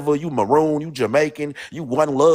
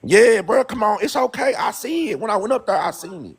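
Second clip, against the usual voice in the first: sarcastic; 8 semitones higher than usual. Real, not acted. Mocking knowing tone.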